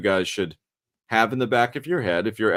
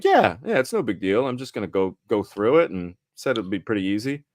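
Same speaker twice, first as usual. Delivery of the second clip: macho bravado. Retold or imitated. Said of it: "my macho bravado kicks in".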